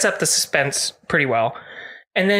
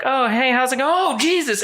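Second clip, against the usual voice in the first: goat voice; 7 semitones higher than usual. Retold or imitated. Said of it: "she, like, walks out and is like".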